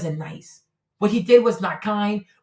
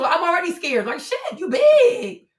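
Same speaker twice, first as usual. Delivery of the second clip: much higher, laughing mock fear; laughing fright; 8 semitones higher than usual. Real, not acted. Streamer jokes about the big player, laughing mock fear. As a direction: squeal it through laughter.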